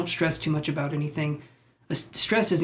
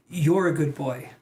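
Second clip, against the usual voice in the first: pet talk; slower than usual. Real, not acted. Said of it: "that's how I cheer myself up".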